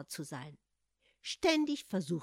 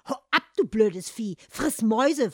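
loud shout; shooing away; 4 semitones higher, 11 dB louder than usual. Acted. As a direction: chase the cat off. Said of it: "versuchte Hans, ihn zu vertreiben".

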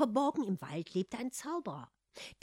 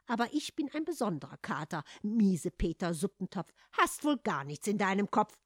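cheeky; 3 dB louder than usual. Acted. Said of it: "äußerte sich der Kater frech".

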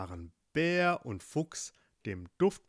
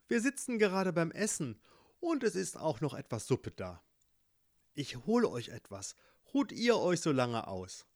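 put-on higher girlish voice, tender; caring girl; 5 semitones higher than usual. Girls welcome the cold animals, high tender. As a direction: fuss over the frozen guests.

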